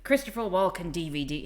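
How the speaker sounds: lightly imitated Irish accent. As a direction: quote a former partner in an Irish accent. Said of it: "I don't have to do the accent".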